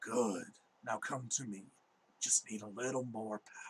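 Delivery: very raspy, hoarse, scraped-raw delivery. A narrator voices an unseen speaker calling from the woods, very raspy voice. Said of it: "you hear a very raspy voice just kind of go".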